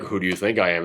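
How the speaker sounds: low, measured menace of a film villain; old Japanese man. Acted. Reviewer voicing the old man in the cave, low and quiet. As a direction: drop into a low, quiet character voice. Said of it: "the old Japanese guy is like".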